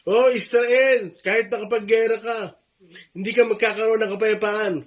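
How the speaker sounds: hammed-up preacher crying out to Israel; imitating a shouting preacher. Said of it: "Merong sumisigaw na tao".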